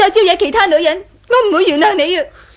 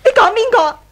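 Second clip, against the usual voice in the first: tearful; 4 semitones higher than usual. Acted. Accused wife, tearful.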